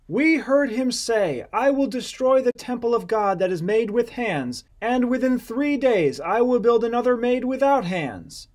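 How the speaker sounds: high, deliberate accusation; false witness. Acted. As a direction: declaim the charge like a false witness.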